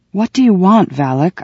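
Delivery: demanding. Acted. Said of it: "I demanded".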